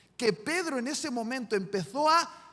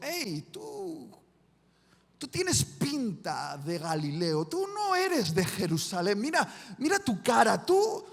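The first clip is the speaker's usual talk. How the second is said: suspicious accuser. Acted. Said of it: "alguien miró a Pedro y le dijo".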